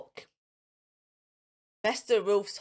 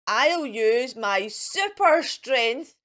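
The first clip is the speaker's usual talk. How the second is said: slow proud boast; 4 dB louder, slower than usual. Acted. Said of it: "shouts Mister Wolf".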